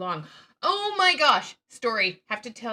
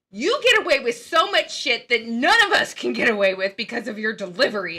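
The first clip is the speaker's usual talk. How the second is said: boss quote; 9 dB louder than usual. Retold or imitated. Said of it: "she goes".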